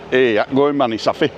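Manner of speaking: put-on Bury accent; a quick burst of broad Bury accent. Shown as a demonstration. Man showing the local talk he had to learn at school, Bury accent. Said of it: "This Bury accent".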